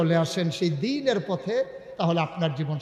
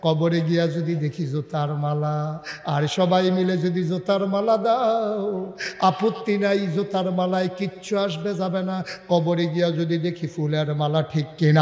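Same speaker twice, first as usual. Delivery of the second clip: melodic preaching. Real, not acted. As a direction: chant the sermon to the crowd. Melodic sermon delivery.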